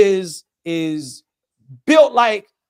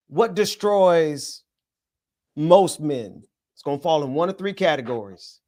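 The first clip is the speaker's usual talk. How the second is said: measured preacher cadence with long pauses; 3 semitones lower than usual. Real, not acted. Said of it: "you sound like a nineteen twenties preacher".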